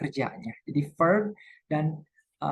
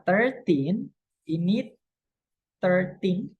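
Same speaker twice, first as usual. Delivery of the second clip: put-on thirteen with teen drawn out and rising; stress on TEEN; 3 semitones higher, slower than usual. Shown as a demonstration. Teacher stresses the teen so it's not heard as thirty. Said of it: "tinnya ini harus ditekankan".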